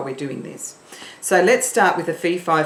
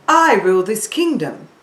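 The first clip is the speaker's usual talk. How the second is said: a touch louder, regal queen; queen voice from the heart; 2 semitones higher, 4 dB louder than usual. Shown as a demonstration. Teacher shows a queen's voice to pupils, lightly regal. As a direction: proclaim it like a queen, from the chest. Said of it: "she would say it from around here".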